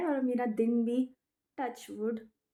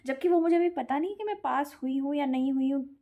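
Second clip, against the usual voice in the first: ordinary talk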